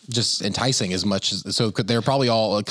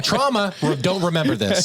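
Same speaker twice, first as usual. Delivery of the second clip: brain voice; 8 semitones higher than usual. Pretend. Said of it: "my brain is saying".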